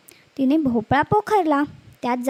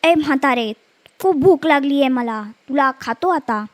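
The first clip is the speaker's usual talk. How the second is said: hungry wolf; 4 dB louder than usual. Acted. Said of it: "तो म्हणाला".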